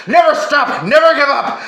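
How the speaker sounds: loud defiant battle cry; fierce shouted rallying cry; raging shout. A narrator's reading. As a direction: roar it out, never surrender. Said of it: "Australia raged".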